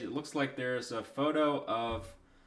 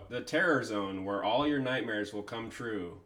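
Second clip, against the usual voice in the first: horror host. Acted. Reading spooky website text aloud.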